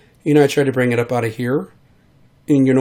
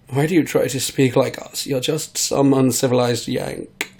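posh British sneer. Retold or imitated. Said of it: "hoity-toities who are like".

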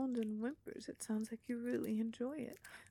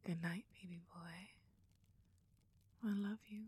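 pillow talk. Acted. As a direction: soothe him gently to sleep. Cuddling after climax.

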